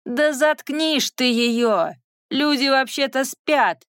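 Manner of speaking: indignant shouting. Acted. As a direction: yell it out, fed up. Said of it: "возмущались прочие заключённые".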